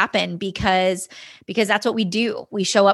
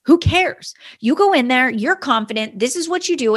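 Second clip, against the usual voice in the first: fired-up pep talk; 4 semitones higher than usual. Retold or imitated. Husband urges hesitant wife to go in, fired-up pep talk. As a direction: pump her up before she goes in.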